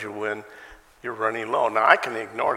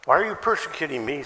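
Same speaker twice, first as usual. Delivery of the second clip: faster, louder, pressing question; urgent question; 4 semitones higher, 5 dB louder, faster than usual. Shown as a demonstration. Quote repeated urgently.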